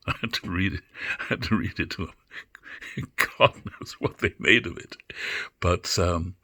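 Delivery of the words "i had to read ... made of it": amused laughing. Real, not acted. Laughing at her teenage self.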